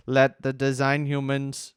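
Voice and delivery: slow, monotone robot reading. Pretend. Quoting a favorite homepage phrase to co-hosts, slow robot voice. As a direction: read it slowly like a robot, pitch held even. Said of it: "if I should continue in that voice".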